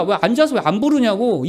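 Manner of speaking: ordinary talk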